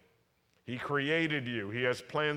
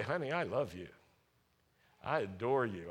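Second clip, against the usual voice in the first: sweet talk; 3 semitones lower, 3 dB quieter than usual. Shown as a demonstration. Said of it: "you talk to her sweet".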